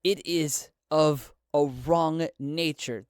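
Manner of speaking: slow whisper at gunpoint; a hushed, slow plea to armed rebels. Acted. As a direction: breathe the words out slowly and carefully. Talti speaks at gunpoint.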